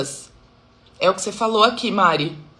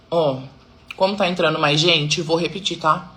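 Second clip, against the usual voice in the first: talking with food in mouth; chewing while talking; 4 semitones lower than usual. Real, not acted. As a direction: speak around a mouthful. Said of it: "Ignorem o fato de eu tá comendo". (mastigando enquanto fala)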